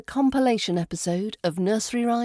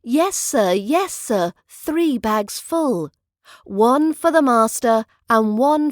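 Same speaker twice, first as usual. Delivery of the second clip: sing-song rhyme reading, a bit higher; nursery rhyme recitation; 4 semitones higher than usual. Acted. Teacher reading rhymes to English learners, sing-song. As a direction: recite it like reading to small children.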